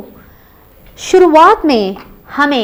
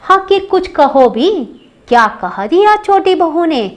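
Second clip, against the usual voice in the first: coaxing question; 4 semitones higher than usual. Acted. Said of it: "बड़ी बहू इंदु से पूछ रही है".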